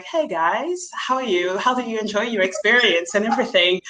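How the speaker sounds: a hint of a chirpy service voice, quickening; polite customer voice. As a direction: switch to the posh-neighborhood code. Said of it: "the nice neighborhood of Paris".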